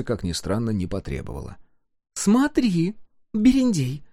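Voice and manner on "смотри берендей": высоко, с предостережением; пригрозить всерьёз; с угрозой. A narrator's reading. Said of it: "лишь предупредила она с угрозой". (погорелица с угрозой предупреждает Кудыку)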